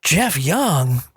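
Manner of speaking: rising to a high squeal on foodie; amazed to recognise him, voice climbing; delighted surprise. Retold or imitated. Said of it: "looks at me and goes".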